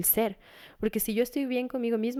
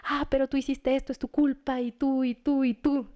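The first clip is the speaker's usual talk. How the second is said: put-on a louder, accusing parent jabbing at the teen; blaming parent; 5 semitones higher, 4 dB louder than usual. Parent scolding a struggling teenager, louder and accusing. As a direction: point the finger: your fault, you and you. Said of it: "le damos simplemente".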